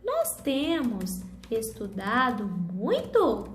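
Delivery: "Nós temos estudado muito?" said slowly with a questioning tune; slow it down and ask it as a question; question intonation. Shown as a demonstration. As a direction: read it as a slow classroom question. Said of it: "só vou mudar a entonação".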